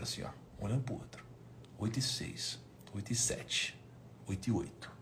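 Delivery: soft whispered count, barely voiced; hushed whisper. Team staring at each other waiting, whispered counting. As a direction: breathe the minutes out in a nervous hush.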